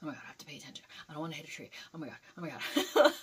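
hushed, jittery self-talk; retold paranoia. Driver talks to self at the wheel, mock paranoid muttering. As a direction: imitate nervous muttering to yourself, mostly under the breath. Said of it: "I was, like, paranoid".

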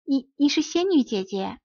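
stunned recognition, voice climbing; astonished cry. A narrator's reading. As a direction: gasp out the fairy's name in disbelief. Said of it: "匹诺曹大声喊道".

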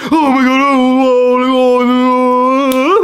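very high, loud mock panic; imitating mum panicking over his bleeding arm; panicked mum. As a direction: ham up the horrified mother. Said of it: "What do you think my mum did?".

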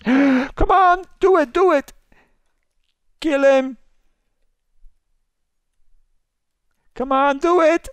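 high, squealing in-game panic; frantic high-pitched gamer shriek; playful panic. Pretend. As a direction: squeal loudly in mock desperation, easing off toward the end. Panicked play in a murder game.

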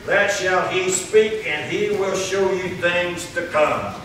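slow, measured declamation from the pulpit; scripture read aloud. Real, not acted. Preacher reading Saint John to the congregation, slow declamation. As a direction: sustain each phrase as solemn Bible reading.

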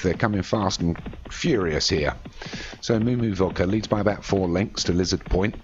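steady running call of a horse race; race commentary. Acted. Commentator calling the jumps to the crowd, live play-by-play. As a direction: keep the field moving in your voice.

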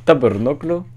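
mock Quebecois accent. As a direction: swear like a Montreal teen in Quebecois accent. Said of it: "je fais tout le temps l'accent".

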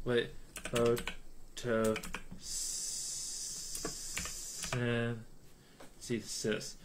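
slow, soft whisper. Real, not acted. Streamer whispering the word to himself, slow and soft. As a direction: breathe the word out slowly.

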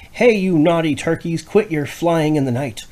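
lightly high scolding mother mouse; a hint of a cross little mouse. Missus Maggie Mouse scolding the turkeys, lightly voiced. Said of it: "scolded Missus Maggie Mouse".

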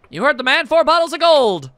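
high, loud, triumphant call; calling out an order. Acted. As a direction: sing out the big order to staff. Hostess calls out the order.

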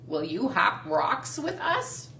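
slightly deep frog. Acted. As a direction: ask like a slow frog. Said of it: "said Frog".

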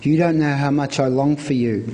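ordinary delivery

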